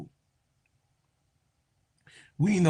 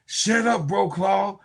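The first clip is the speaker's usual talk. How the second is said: mock player's retort; 4 semitones higher than usual. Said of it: "she said".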